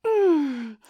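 a full, loud pleasured moan. Acted. To her partner touching her chest, a loud moan. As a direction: let the moan out.

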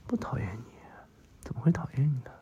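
murmured sweet talk; tender reassurance. Acted. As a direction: reassure a sweetheart gently, with pauses. Reassuring someone they are liked.

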